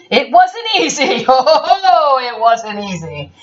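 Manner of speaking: laughing. Real, not acted. Laughing through the narration.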